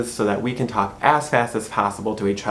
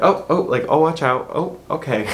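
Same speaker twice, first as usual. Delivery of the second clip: Michigan passing apology; 3 semitones higher than usual. Shown as a demonstration. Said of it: "you just say".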